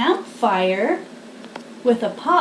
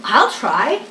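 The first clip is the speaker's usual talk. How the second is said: lively picture-book reading; reading to children. A narrator's reading. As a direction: read it like a bedtime story for little ones.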